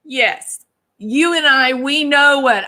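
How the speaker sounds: high, drawn-out knowing yes; a lightly voiced teasing Southern agreement; playful put-on voice. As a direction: sing it out high like a co-conspirator. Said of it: "I was like".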